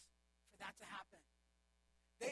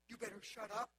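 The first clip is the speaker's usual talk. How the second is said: snapping threat; 7 dB louder than usual. Retold or imitated. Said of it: "They're not like".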